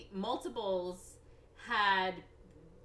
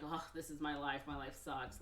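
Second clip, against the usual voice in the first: low, softer mock-gloomy mumble; glum self-pity; 4 semitones lower, 6 dB quieter than usual. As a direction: sigh it like a hard-luck case. Acting out Mickey's self-pity.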